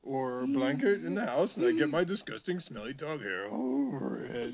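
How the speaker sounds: dog voice. Acted. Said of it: "I'll talk for her".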